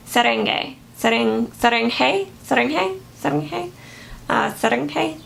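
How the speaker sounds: trying out Serengei several ways, questioning; repeated, doubtful stabs at saying Serengei; unsure pronunciation. Real, not acted. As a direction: sound out Serengei tentatively, rising at the end. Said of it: "I probably am pronouncing it wrong".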